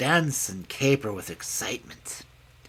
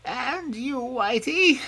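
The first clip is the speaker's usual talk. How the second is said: sad; 14 semitones higher, slower than usual. Acted. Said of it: "said the mother pig in a sad voice".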